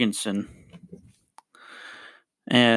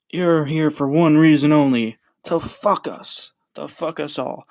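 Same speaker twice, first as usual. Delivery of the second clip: ranting manager; 4 semitones higher than usual. Retold or imitated. Host imitating the manager ranting at the umpire, mock angry. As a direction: imitate the manager's rant at the umpire, half in fun. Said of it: "all of his rants".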